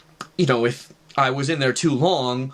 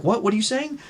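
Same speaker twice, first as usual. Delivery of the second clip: high-pitched imitated bewilderment; puzzled, lightly acted questioning; baffled mom; 9 semitones higher than usual. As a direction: ask as a confused mother. Mom baffled by child's accusation.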